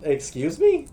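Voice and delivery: feigned amazement at the teacher; sarcastic retort. Retold or imitated. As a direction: play up the incredulous comeback.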